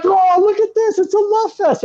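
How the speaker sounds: high, mocking sing-song; mock the sappy moment from up high; sarcastic mock delight. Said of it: "all of a sudden I'm like".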